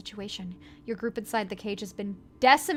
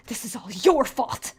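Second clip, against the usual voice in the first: accusing; 8 dB louder than usual. Acted. Boyfriend blames you.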